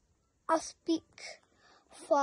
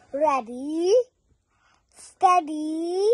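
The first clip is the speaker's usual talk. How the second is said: shouted start; 7 dB louder than usual. A narrator's reading. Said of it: "shouted the crow".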